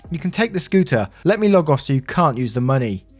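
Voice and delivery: acted incredulous objection; indignant protest. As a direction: argue back in disbelief. Narrator argues back.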